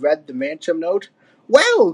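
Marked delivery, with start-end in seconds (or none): 1.5-1.9 put-on high old-ape grumble; Cranky, grunting. A narrator's reading. Old ape weighing the ransom, grudging. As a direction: grumble it in a raised old-timer voice. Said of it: "grunted Cranky".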